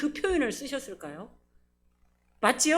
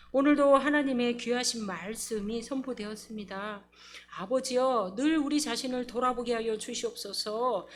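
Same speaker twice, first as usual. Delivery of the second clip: prayer. Acted. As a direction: pray it gently over the congregation. Leads closing prayer.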